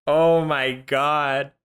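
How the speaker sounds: slow, drawn-out oh my God; appalled disbelief. Real, not acted. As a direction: draw it out in real disbelief. Shocked reaction to the clip.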